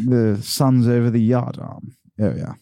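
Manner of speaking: posh charm and swagger; unbridled confidence of an old English gent; old posh boy. Acted. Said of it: "they've got all that sort of charm and swagger".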